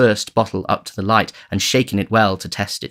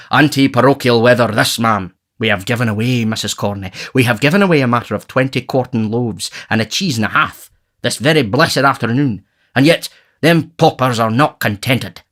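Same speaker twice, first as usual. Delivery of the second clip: pompous beadle, a touch louder; Mr Bumble; 3 semitones higher, 4 dB louder than usual. Acted. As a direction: puff up like a self-important parish officer. Bumble speaks in the story.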